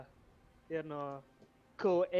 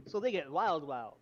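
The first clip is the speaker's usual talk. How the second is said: put-on southern accent. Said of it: "do a southern accent like that?".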